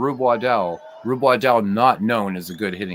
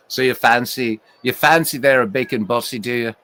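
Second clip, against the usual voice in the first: a lightly put-on Liverpool scouse lilt; playful hint of scouse, Liverpool English; light scouse accent. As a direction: tease a friend in a mild scouse accent. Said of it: "I had to give M V a bit of scouse there".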